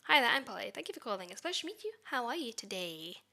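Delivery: bright, cheerful greeting for callers; happy friendly tone. Shown as a demonstration. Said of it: "Happy, friendly tone".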